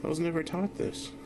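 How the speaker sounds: put-on high cutesy little girl voice; squeaky playful child voice; cute girly voice.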